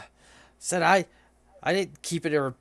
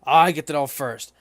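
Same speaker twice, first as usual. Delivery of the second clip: gruff Minotaur; 2 semitones lower, 6 dB louder than usual. Acted. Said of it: "the other Minotaur goes".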